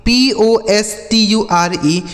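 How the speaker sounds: slow letter-by-letter spelling; each letter given its own beat. Shown as a demonstration. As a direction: spell it out slowly for learners. Spells words out for learners.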